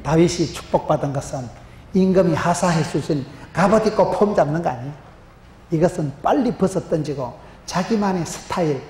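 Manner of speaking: normal talking voice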